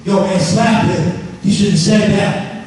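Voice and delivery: slow, sly whisper-in-your-ear tempter; lightly voiced devil egging you on; Satan's tempting voice. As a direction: coax him into a fight, a little slowly. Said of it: "some of us hear Hasatan voice like this".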